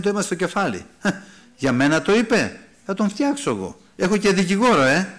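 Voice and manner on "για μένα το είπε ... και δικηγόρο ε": lightly acted huffy, rising retort; mock indignation. Preacher mimicking an offended listener to the congregation, mock indignant. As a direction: play someone taking offence, pitched up.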